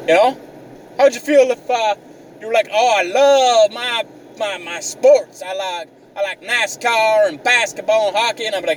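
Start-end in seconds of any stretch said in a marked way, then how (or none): 2.7-8.5 lightly put-on, higher voice with drawn-out start; mock sports fan. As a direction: imitate someone gushing over sports. Imagines other man listing sports.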